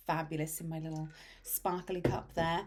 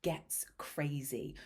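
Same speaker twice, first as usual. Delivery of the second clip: whisper; 4 dB louder, much slower than usual. Acted. Dramatic whisper on chaos.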